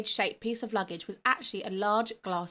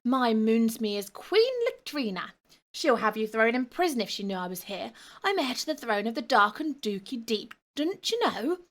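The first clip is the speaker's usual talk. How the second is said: whining goblin ghost; 2 semitones higher, 4 dB louder than usual. Acted. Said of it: "he whined".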